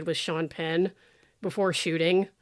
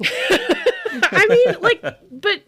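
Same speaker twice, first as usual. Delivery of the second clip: laughing; 8 dB louder, much slower than usual. Real, not acted. Cracking up at own joke.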